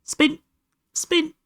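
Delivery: high excited "spin"; playful cheer. Acted. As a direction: squeal it at the kitten. Urging kitten to spin.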